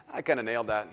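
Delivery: low, casual boast; understated self-satisfaction. Retold or imitated. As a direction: toss it off like a proud kid playing cool. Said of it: "he gives this look like".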